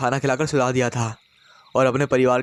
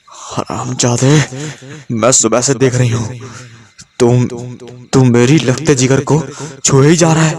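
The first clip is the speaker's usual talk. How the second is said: possessed roar; 8 dB louder than usual. A narrator's reading. Possessed wife roaring at her husband while strangling him. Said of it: "फटी फटी मर्दानी कर्कश आवाज़ में दहाड़ने लगी".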